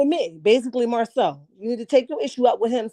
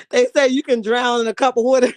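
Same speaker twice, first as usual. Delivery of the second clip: laughing. Real, not acted. Laughing at drowning.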